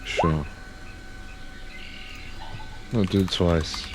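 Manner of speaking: ordinary talk, nothing marked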